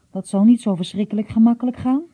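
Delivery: lightly voiced misgiving; doubtful. Jon raising doubts about the plan, mildly doubtful. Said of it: "zei Jon bedenkelijk".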